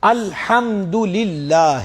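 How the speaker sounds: الحمدللہ drawn out slowly, ending on a falling tune; teacher's model recitation. Shown as a demonstration. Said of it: "مثلاً".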